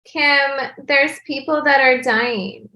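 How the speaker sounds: Kourtney Kardashian impression. Asked for a voice, doing Kourtney to Kim, slow and languid. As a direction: drawl it like a bored Kourtney. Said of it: "Could you do a voice?".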